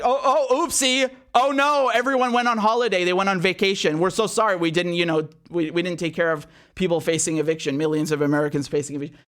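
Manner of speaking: sarcastic oopsie from lawmakers; mock apology. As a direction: play the shrugging politician, mockingly. Mocking fake apology.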